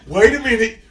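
loud high sudden realization; surprised. Pretend. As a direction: stop short, suddenly alarmed.

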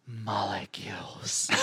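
breathy whisper, almost no voice; whispered word. Retold or imitated. Penny whispers to her boyfriend, breathy and hushed. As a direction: whisper it like a secret. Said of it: "And she says".

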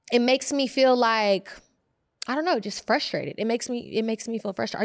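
talking around a retainer; wearing a retainer. Real, not acted. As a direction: speak with a retainer in. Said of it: "You should take this out".

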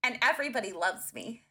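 grand auntie voice. Acted. Reader boasting to the group in a grand auntie voice. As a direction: declare it grandly.

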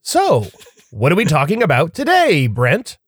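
lightly voiced host impression; playful put-on host voice; Brent voice. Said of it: "put on my best Brent voice".

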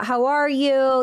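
drawn-out small-talk "how are you"; chit-chat greeting. Retold or imitated. Doctor opening the session with chit chat, drawn-out greeting. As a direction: stretch it out as imitated friendly small talk.

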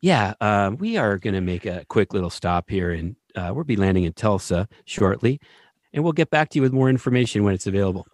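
lightly voiced calm captain on the PA; calm pilot voice. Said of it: "in a super calm pilot voice".

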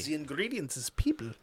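hushed sinister whisper. Pretend. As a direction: breathe it like a dark secret. Dark punchline whispered.

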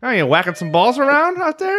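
sly menace, playfully put on; friendly threat. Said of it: "that your Roman impression?".

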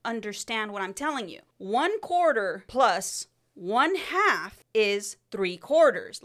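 exasperated, emphatic explaining; retold yelling. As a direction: stretch out each part of the sum, loud and insistent. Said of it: "I'm yelling at him. I'm, like, going in".

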